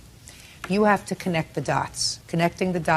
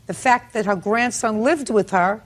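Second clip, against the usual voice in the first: loud, stern rebuke; sarcastic scolding tv judge; 3 semitones higher, 6 dB louder than usual. Real, not acted. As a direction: cut him down from the bench.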